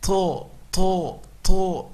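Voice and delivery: to with air pushed out; To, to, to with a breathy puff, the mistake; wrong breathy to. Shown as a demonstration. Teacher shows the wrong breathy sound first. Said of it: "Salah, dia bukan huruf hams".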